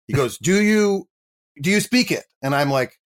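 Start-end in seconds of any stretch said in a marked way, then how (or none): 0.4-2.2 higher, pushy quick question; excitable director. Retold or imitated. Director Michael Bay grilling the actor, high and pushy. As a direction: mimic a keyed-up director quizzing the actor.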